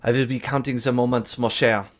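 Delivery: put-on quick, light French accent, a lady flirting; a lightly done French accent as the flirty lady leaves. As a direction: toss it off in a French accent, teasing. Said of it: "I need to dial in my French accent".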